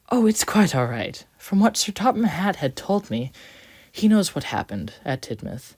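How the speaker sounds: a cheerful little engine; Quincy voice. A narrator's reading.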